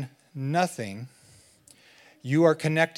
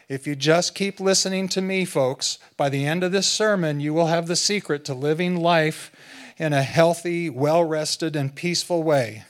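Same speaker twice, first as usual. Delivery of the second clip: upbeat salesman pitch, a touch louder; infomercial pitch; 2 semitones higher, 4 dB louder than usual. Pretend. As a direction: sell it like a late-night ad host. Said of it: "start sounding like an infomercial".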